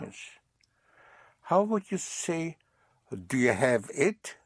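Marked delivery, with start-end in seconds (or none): 0.0-0.4 whispered yes. Real, not acted. Teacher whispers approval aside.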